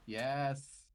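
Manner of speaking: loud joyful yes; excited shout. Real, not acted. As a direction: cheer the critical hit. Big critical hit celebrated.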